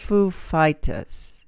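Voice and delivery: lightly mimicked, very slow; Christopher Walken. Co-host having another go, slow shaky Walken attempt. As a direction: stretch both words, slightly British-sounding.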